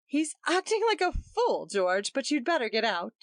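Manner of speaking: high urgent cry. A narrator's reading. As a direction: push him out urgently. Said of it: "she cried".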